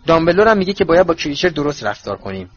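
heated. Acted. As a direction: argue it with passion. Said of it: "هرماینی با حرارت گفت". (با حرارت و بلندتر)

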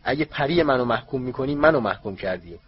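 loud, hard angry shout. Acted. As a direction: shout it down at Diggory. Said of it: "آقای کراوچ فریاد زد".

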